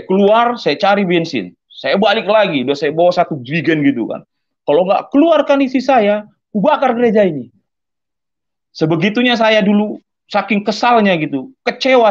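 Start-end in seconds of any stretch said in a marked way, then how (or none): 4.7-7.5 high, loud threatening shout; retold furious threat. Drunk husband threatens to burn the church, furious.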